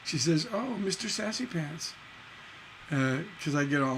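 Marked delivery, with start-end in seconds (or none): 0.5-1.9 wife's teasing. Retold or imitated. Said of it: "that's what my wife says when I get a little uppity".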